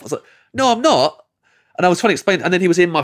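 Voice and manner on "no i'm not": high-pitched mock protest; indignant little denial, retold; defensive protest. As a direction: deny it, pitched well up. Protesting an accusation in retold argument.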